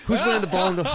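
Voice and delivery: high villain voice; squeaky cartoon villain; evil character voice. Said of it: "It sounds like an evil character".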